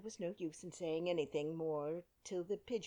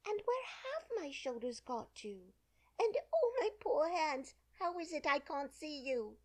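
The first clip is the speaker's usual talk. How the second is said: rising, louder panic over lost hands; alarm; 10 semitones higher, 4 dB louder than usual. A narrator's reading. Alice frightened, searching for her hands. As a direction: fret higher and higher. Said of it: "changed into alarm".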